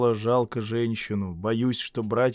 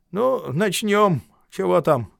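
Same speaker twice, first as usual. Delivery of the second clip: slow Gubin; 7 semitones higher, 4 dB louder, slower than usual. A narrator's reading. Gubin to the boy.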